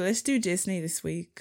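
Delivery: put-on a light Australian accent; Australian accent try. Cohost tries an Australian accent for the podcast. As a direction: give it a breezy Australian accent. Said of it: "master this Australian accent".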